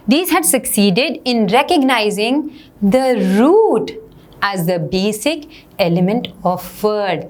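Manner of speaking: slow, deliberate read-aloud. Acted. Teacher reading a grammar passage to students, slow dictation-like reading. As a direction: read the passage out word group by word group.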